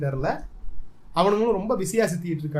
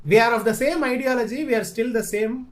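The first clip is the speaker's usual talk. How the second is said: slow declaration; 3 semitones higher, much slower than usual. Pretend. Solemn declaration.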